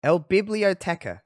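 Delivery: El Biblioteca in a heavy English accent, slow; anglicized Spanish. Shown as a demonstration. Host repeating the Spanish word, clumsy English accent. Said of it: "I just sound like I'm being problematic when I say it".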